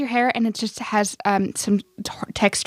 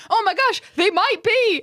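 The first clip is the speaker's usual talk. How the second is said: excited laughing shout; 10 semitones higher than usual. Acted. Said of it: "gonna like".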